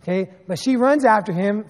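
ordinary talk

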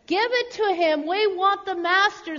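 a crowd member, mildly yelling; impatient shout. A narrator's reading. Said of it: "someone shouted".

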